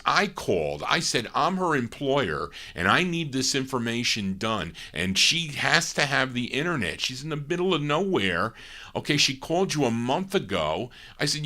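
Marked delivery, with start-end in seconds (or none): 1.3-8.5 higher-pitched insistence, recounting a phone row; retold demanding complaint. Employer to internet technician, retold insistent demand. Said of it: "I threatened the guy". 9.0-10.9 higher-pitched, mildly indignant retelling; retold demanding complaint. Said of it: "I threatened the guy".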